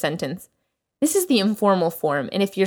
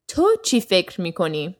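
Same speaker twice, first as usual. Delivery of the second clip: تو said first and strongest, the rest quicker; stress on تو; faster than usual. Shown as a demonstration. Teacher showing students the stress on تو. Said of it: "emphasis on the تو".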